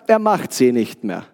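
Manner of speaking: deutlich tiefer, gelassen gesprochenes Zitat; ruhiger Opa, nachgeahmt. Retold or imitated. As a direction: den gelassenen Großvater mit gesenkter Stimme andeuten. Zitiert ruhigen, gläubigen Opa. (ruhig und tief wie der Opa)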